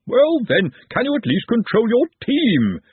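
high, loud demanding official; stern official. Acted. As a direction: press the captain hard. Arch-Chancellor scolding captain.

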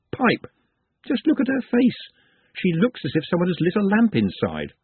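talking sherry. Acted. The sherry talking Glenda round, lightly voiced and insistent.

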